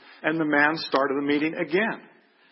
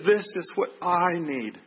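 higher, slow, heartfelt emphasis on "I need"; emotional emphasis; 5 semitones higher, slower than usual. Retold or imitated. Officer receives the tract in Chinese, with emotional emphasis. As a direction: say "This is what I need" slowly and raised, meaning it. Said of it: "he became more emotional".

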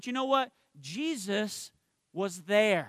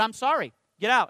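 louder, mock brusque dismissal; mock curt cashier; 2 semitones higher, 6 dB louder than usual.

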